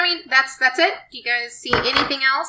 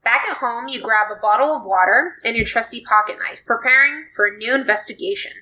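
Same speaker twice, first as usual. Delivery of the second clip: story narration. Acted. Second player reads story card.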